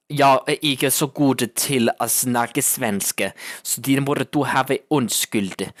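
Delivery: Danish spoken with a light Swedish accent, slowed a little; lightly put-on Swedish accent over Danish words. Shown as a demonstration. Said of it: "that was my Danish, with the Swedish accent".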